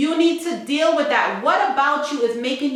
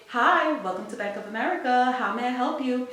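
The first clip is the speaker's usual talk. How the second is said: softer, quicker customer-service greeting; sweet polite bank teller on the phone; nice phone voice; 4 dB quieter, faster than usual. Retold or imitated. Bank teller greeting a caller, sweetly polite. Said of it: "I have a nice phone voice".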